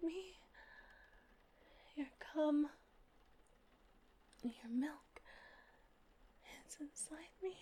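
quiet murmur right after release; tender afterglow whisper. Acted. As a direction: hush it out, spent and tender.

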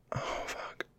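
whispering. Acted. Breathy aroused exhale.

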